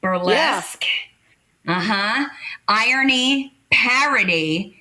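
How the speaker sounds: measured, emphatic dictionary reading; reading a definition. Real, not acted. Performer reading colleagues the definition of satire, measured recital. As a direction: announce each term as a separate item. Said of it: "I'll read you the fucking definition".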